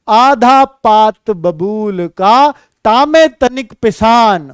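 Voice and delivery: slow, measured couplet recital; slow recitation. Shown as a demonstration. (धीमा दोहा पाठ)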